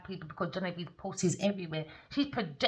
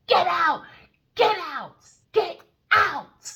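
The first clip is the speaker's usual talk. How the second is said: high loud shout, crying edge; shouting get out; 11 semitones higher, 8 dB louder, much slower than usual. Retold or imitated. She shouts the crowd out, high loud cries. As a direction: throw them all out. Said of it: "I told them all".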